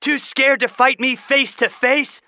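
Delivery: loud, high taunting shout; boy shouting a dare; taunting cry. Acted. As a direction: goad the dragon out. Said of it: "Seth cried".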